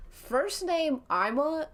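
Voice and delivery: slow, proudly announced mock introduction; confident. Cheeky player answers the stranger, with mock confidence. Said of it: "you with so much confidence".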